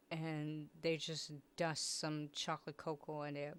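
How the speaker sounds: whispered aside; whispering. Real, not acted. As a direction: drop to a whisper. Unvoiced aside.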